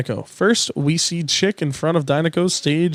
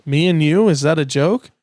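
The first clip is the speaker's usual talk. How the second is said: mocking McQueen; 4 dB louder than usual. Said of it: "Lightning McQueen chuckles".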